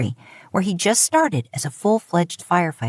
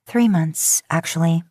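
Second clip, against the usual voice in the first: thinly veiled annoyance. Acted. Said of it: "in thinly veiled annoyance".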